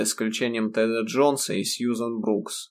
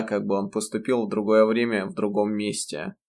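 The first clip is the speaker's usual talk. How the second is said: ordinary delivery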